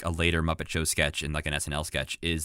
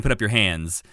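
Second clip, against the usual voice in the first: southern drawl. Retold or imitated. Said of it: "I can't do a good Southern accent".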